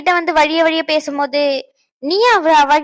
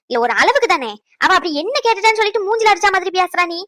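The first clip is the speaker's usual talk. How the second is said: raised, higher-pitched angry scolding; 4 semitones higher than usual. Acted. Mother scolding her daughter for rudeness to a guest, angrily. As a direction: tear into her for how she treated the guests.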